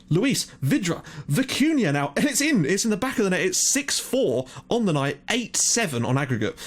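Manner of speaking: live commentary as his team scores; excited goal call. Real, not acted. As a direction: shout the build-up and the goal like a commentator. Equaliser on the night, live call.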